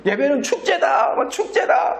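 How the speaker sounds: high, slow, laughing mockery of the slogan; mocking slogan. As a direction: sneer at "예배는 축제다" with a laugh. Mocking church festival slogan.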